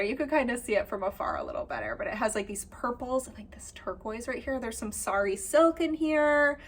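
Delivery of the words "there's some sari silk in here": slightly nasal, blocked-nose sound. Real, not acted. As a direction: speak a little through the nose. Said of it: "listening to my nasally voice".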